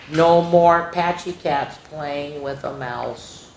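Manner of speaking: put-on lively read-aloud for young kids; sing-song picture book voice; storybook reading.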